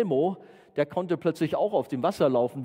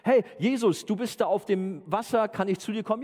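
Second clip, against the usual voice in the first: higher-pitched eager call; 8 semitones higher than usual. Acted. Disciple calls to Jesus from the boat, acted eager call. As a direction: call out across the water, asking to join. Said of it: "wenn wir uns nochmal den Petrus vorstellen".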